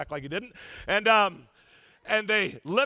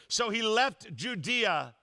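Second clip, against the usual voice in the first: slow scripture reading; 3 semitones higher, much slower than usual. Shown as a demonstration. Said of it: "reading scripture slowly".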